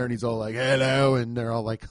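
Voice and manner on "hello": clipped-off mock British hello; a quick put-on British accent; Jason Statham. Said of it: "Jason Statham goes in there".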